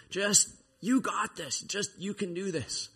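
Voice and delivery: very high, stretched-out cheerleading; mock self-help pep talk. People giving him all this self-help, mock pep talk. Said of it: "giving him all this self-help".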